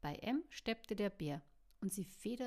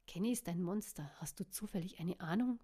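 angry; 4 dB louder than usual. Acted. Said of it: "fing Lucian böse an".

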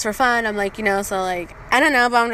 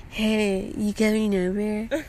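put-on lightly slurred drunk request; a hint of a sloppy drunk asking a favor; drunk boyfriend; 3 dB quieter, slower than usual. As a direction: casually imitate a tipsy boyfriend. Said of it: "sloppy and drunk".

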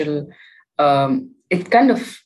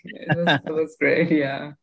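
ordinary talk

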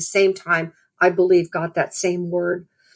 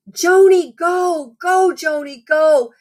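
retold cheer; 8 semitones higher, much slower than usual. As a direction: cheer her on like a fan in the stands. Someone cheering her on from bleachers.

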